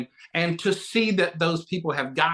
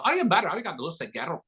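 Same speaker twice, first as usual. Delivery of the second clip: put-on Irish accent coaching; 4 semitones higher than usual. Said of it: "Billy always jump on the phone and go".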